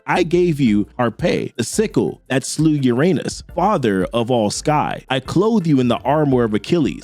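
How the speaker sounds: a hint of a stern patron scolding; old man. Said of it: "He's like".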